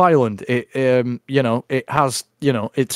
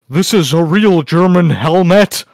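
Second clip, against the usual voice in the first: slow, louder mock boast; mock proclamation; 3 semitones higher, 5 dB louder than usual. Host acting out Chad's post, slow mock proclamation. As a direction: declare it grandly, drawing it out.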